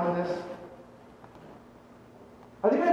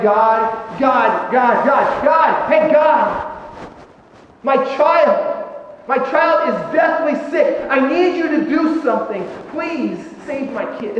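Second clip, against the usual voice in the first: pleading cry to God, voice raised; desperate prayer; slower than usual. Retold or imitated. Pastor voicing a frantic parent's prayer, pleading. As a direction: beg God for a sick child.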